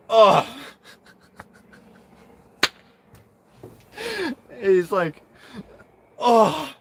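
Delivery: high, loud oh breaking into laughter; laughing oh. Retold or imitated. Retelling his reaction to classmates, laughing. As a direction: squeal it through a giggle.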